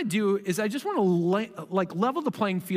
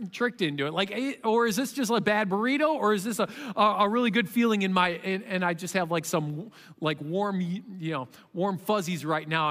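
unsure believer. Retold or imitated. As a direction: ask yourself, torn between hope and doubt. Voices a doubting believer.

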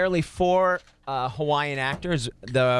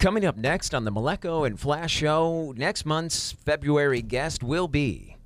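TV announcer voice. Acted. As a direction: announce it like a TV promo. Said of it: "in a T V announcer voice".

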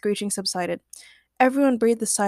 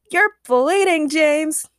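high, loud worried exclamation; alarmed cry; 7 semitones higher, 5 dB louder, slower than usual. A narrator's reading. Agnes tells James he is bleeding, screaming. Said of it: "screamed Agnes Gertrude".

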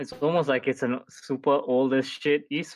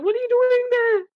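baffled; 7 dB louder than usual. Retold or imitated. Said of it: "And I'm like".

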